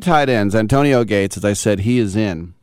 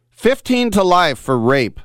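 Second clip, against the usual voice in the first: higher, louder and slow, each word leaned on; pointed repeat; 11 semitones higher, 4 dB louder than usual. Real, not acted. Host driving home the athlete's sentence to listeners, slow and pointed. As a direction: land the punchline deliberately, word by word.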